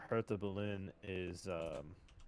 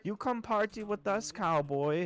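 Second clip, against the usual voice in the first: gushing German fan; 12 semitones higher, 8 dB louder than usual. Retold or imitated. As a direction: ham up a drunk fan thrilled by a cowboy. Fans inviting him.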